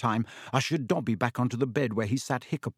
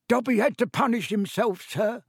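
high, squeaky little servant; Dobby, elf voice; 10 semitones higher than usual. A narrator's reading. Elf excuses punishing himself, high-pitched. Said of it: "said the elf".

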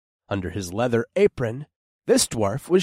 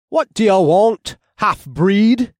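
louder, higher sneering challenge; hostile dwarf shout; 10 semitones higher, 8 dB louder than usual. Acted. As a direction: bark it at the half-breed.

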